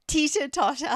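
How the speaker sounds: teeter-totter in her Australian accent; giggly Australian lilt. Real, not acted. Shy wife saying the word for her teasing husband, Australian accent. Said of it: "It sounds so silly with my accent".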